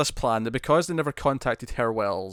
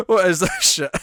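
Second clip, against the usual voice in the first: louder, higher mock disgust; frowning disgust; 7 semitones higher, 7 dB louder than usual. Sisko sitting there frowning at Wells, mock disgust. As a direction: repeat it as an exasperated, frowning quote. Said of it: "like, frowning".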